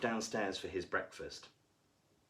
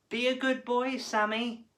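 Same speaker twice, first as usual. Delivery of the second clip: much higher, louder call after him; mother calling; 12 semitones higher, 5 dB louder than usual. A narrator's reading. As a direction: call out as he leaves. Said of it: "his mother called".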